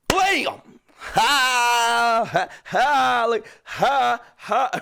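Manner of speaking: loud, high bursts of exclamation; playful surprise attack. Acted. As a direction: fire off each shout like a surprise hit. Acting out springing a surprise.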